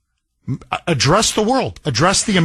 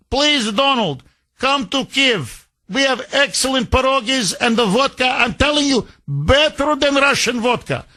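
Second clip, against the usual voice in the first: higher, fawning mock Ukrainian voice; higher pleading Zelensky voice, hammed up; mocking Zelensky impression; 5 semitones higher than usual. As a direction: suck up to Donald in a put-on accent. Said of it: "All you say is".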